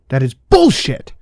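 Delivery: furious shout. Acted. Andrew shoves Daniel and yells in fury. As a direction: spit it out in rage.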